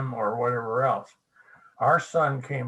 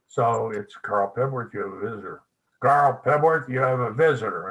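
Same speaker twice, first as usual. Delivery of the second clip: mock receptionist calling out, louder on the repeat; urgent, irritated announcing; 4 dB louder than usual. Old receptionist paging the son across the office, growing urgent. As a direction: page him again, now impatient. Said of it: "more urgent and irritated".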